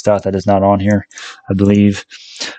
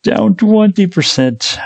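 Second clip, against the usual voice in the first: much higher, drawn out slowly, hammed-up lament; mock wail; 12 semitones higher, much slower than usual. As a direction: wail the loss like a tragedy. Laments stock losses.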